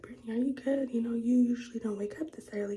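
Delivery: lightly voiced concerned mom; mom's concern. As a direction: ask it like a worried mom.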